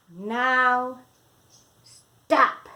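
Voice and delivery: loud sharp order; command. Acted. Max ordering the wild things to stop, loud command. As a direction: halt them all. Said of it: "Max said".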